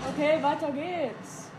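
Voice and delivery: slow drawl. Real, not acted. Drawn out.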